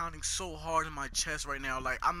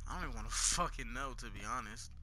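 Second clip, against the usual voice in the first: whispering while hiding; 5 semitones lower, 11 dB quieter than usual. Real, not acted. Sneaking in scary area.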